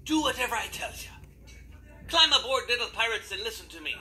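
lightly voiced friendly pirate captain; a hint of an old sea dog.

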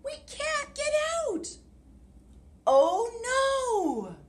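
very high squeaky mouse wail; squeaked mouse. Acted. Mouse cries out trapped in the hole, very high squeak. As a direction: squeak in panic, tiny and shrill. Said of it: "Squeaked Mouse".

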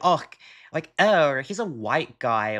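light, teasing "oh" and a dropping end; demoing the joking version of the remark; joking manner. Shown as a demonstration. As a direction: toss it off like a joke. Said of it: "maybe in a joking manner".

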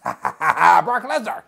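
stuttered lead-in, then drawn-out loud name; stammer, then proclaim the wrestler's name slowly; mock ring introduction.

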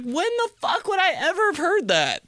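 very high, squealing indignation; exasperated disbelief. Retold or imitated. Son answering fluent speakers, high exasperated mock retort. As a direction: act out a high-pitched, outraged retort.

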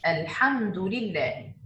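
الحمد لله read slowly with a clear closed م; clear meem. Shown as a demonstration. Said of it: "we should pronounce this meme clearly". (قراءة الحمد لله بإظهار الميم)

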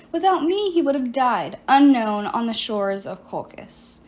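lightly voiced sorceress, self-pitying; a hint of a wronged enchantress pleading her case; sorceress Medea. Medea explains herself to Piper, lightly voiced silky sorceress.

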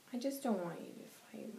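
put-on soft, hurt little girl pleading; sad child plea. Little girl begging Mommy and Daddy not to fight. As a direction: beg your parents quietly not to fight.

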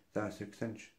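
soft, barely bothered mumble; imitated rude grunt. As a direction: mimic a server grunting the answer. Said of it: "she was, like, grunting at me".

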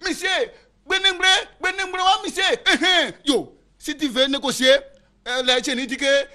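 channel a spirit in a trance. Acted. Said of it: "il interroge encore ses génies".

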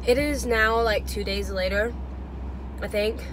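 talking around a mint; mint in mouth. Real, not acted. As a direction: speak with a mint in your mouth. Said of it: "Sorry, I have a mint in my mouth".

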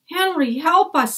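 high, loud call for help. Acted. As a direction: call across the deck to Henry. Annie calls to Henry.

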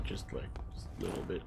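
whispered. Real, not acted. Wistful aside about tea.

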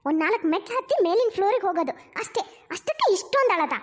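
lively swoops of disbelief; exasperated scolding. Acted. Mother to crying bride, exasperated scolding. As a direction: chide her for making a fuss.

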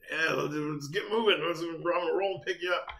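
a touch of eager excitement; excited. Retold or imitated. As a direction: act out an eager text to a friend. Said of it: "we texted each other excitedly".

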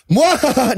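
hammed-up evil villain laugh; evil cackle. Shown as a demonstration. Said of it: "the attempted unison cackle".

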